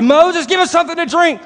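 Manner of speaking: high, loud whining demand; mock griping. Israelites nagging Moses for water, mock whining. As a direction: whine it like a spoiled complainer. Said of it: "So like".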